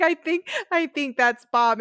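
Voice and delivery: slow, halting dopey reply; drawn-out clueless joke; slow deadpan Xander. Retold or imitated.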